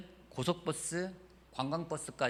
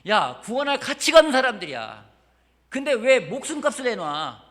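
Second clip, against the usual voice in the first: loud, high scornful sneer, slowing at the end; mocking Satan; 8 semitones higher, 11 dB louder than usual. Pastor voicing Satan mocking the ransom, loud high sneer. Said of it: "사탄이 제일 비웃었을 거예요".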